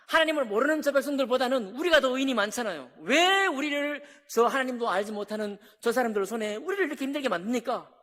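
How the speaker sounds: loud, insistent complaint; protesting demand. Retold or imitated. Habakkuk pressing God with his complaint, loud and insistent. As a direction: argue your case to God. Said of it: "라고 막 따져 물었잖아요".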